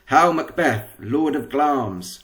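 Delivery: a lightly voiced old witch, slow on Glamis; a hint of a crackly hag. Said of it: "crackly voice".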